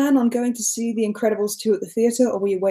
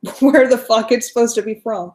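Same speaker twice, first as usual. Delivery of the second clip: attempted American accent, slightly louder; 4 dB louder than usual. Shown as a demonstration. Asked to do accents on the spot, attempted American accent. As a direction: put on your best American accent. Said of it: "this is my best American accent".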